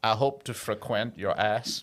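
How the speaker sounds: slow, drawn-out southern gentleman voice; southern gentleman accent. Retold or imitated. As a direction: slowly play a courting southern charmer. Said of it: "Yes, that was good".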